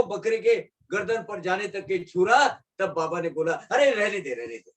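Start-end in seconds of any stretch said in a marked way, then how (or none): 3.5-4.3 higher "stop, let it be"; urgent intervention. Acted. Baba halting the man about to strike, urgent intervention. Baba stops the sacrifice, first cry. 4.3-4.7 low, soft, falling away; hushed relenting. Acted. Baba calling off the goat's killing, hushed relenting.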